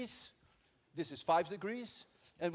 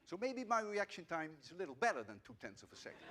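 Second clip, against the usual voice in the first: amused, laughing; 5 dB quieter, faster than usual. Real, not acted. Jokes about own reaction time.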